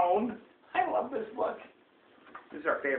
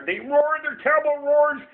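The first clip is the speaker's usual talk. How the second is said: higher, emphatic story reading; dramatic storytelling; 5 semitones higher than usual. A narrator's reading. Parent reading a monster book to a child, dramatic. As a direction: punch up the monsters' terrible deeds.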